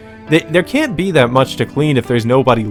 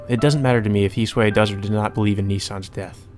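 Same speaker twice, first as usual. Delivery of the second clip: composed first-person narration; story narration; 5 dB quieter than usual. Acted. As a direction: read it out evenly and restrained. Reads game narration.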